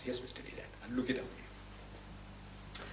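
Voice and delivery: slow, breathy whisper of a promise; a drawn-out whispered answer; whispered reply. Retold or imitated. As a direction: murmur it back slowly and under the breath. Naidu's reply, quoted in the story.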